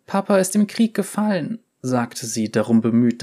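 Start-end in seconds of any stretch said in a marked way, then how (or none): 0.0-1.6 put-on high girl voice fighting a tremble; holding back tears. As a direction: keep the shake out of the voice. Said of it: "das Zittern aus ihrer Stimme zu verbannen".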